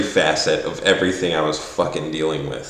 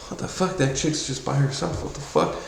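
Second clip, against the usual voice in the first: hushed aside; 5 semitones higher, 9 dB quieter than usual. Retold or imitated. Stunned at naked woman outside.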